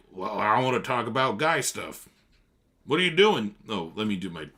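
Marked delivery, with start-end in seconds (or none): 0.1-2.1 gruff Tom. Retold or imitated. Tom interrupts Daisy to talk to Nick, brusque. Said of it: "just is like". 2.8-3.6 loud, higher brusque interruption; gruff Tom. Acted. Tom interrupts Daisy to talk to Nick, brusque. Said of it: "let me do my Tom voice".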